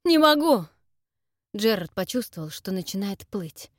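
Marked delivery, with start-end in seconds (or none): 0.0-0.6 high, loud strained protest; exhausted Gerard crying out that he can't; desperate cry. Acted. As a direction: cry out at the limit of strength.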